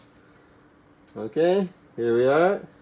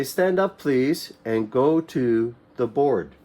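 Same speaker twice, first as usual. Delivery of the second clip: teacher's instruction. Shown as a demonstration. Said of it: "they'll say".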